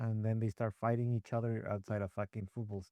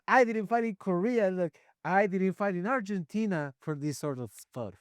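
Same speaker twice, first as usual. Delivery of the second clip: mock veteran line; 5 semitones higher, 6 dB louder than usual. Parodying rewritten veteran lines.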